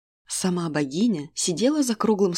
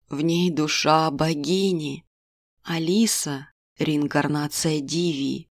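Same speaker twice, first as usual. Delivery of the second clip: fortune teller; 4 semitones lower, slower than usual. Acted. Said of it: "Karna reveals the reincarnation".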